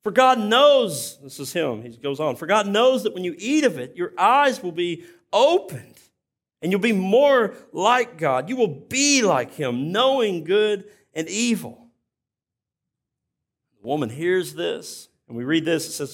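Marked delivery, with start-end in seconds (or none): 0.0-11.9 higher, louder, slow appalled tempter; appalled serpent. Retold or imitated. Serpent scoffing at the woman, slow appalled tone. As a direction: scoff at her fear, drawn out and lifted. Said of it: "he's appalled by the fact".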